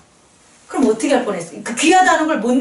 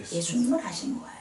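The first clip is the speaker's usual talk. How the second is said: whisper; 8 semitones lower, 13 dB quieter, faster than usual. Real, not acted. Preacher drops voice to answer.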